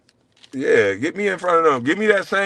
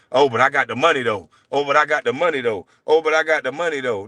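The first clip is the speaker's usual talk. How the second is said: mimicking a bragging rich man; sneering parody of a boastful guy; mocking Gil. Mocking his rival who keeps bragging about his money. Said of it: "talking about".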